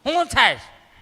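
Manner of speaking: loud, brisk question from a doctor; loud doctor call. Retold or imitated. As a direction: call the old woman over loudly. Doctor calling patient loudly. (ડૉક્ટરનો મોટો અવાજ)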